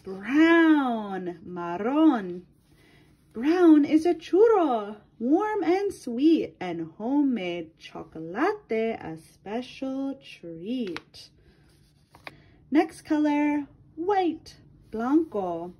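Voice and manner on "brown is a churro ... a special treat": lilting read-aloud for a class; reading to children. Acted. Teacher reading a color book to her class, lilting read-aloud. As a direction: read it to little ones, rhyme by rhyme.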